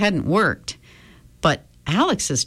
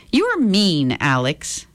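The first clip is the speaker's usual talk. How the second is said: calm. Acted. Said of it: "She said this calmly".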